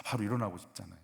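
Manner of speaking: ordinary talk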